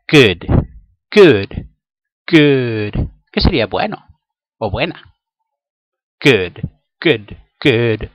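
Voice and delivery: "Good" repetido, marcando bien la g; good pronunciado fuerte. Shown as a demonstration. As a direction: practicar "good" con la g profunda. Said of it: "lo difícil que es pronunciar la G". ("good" con la g de la garganta)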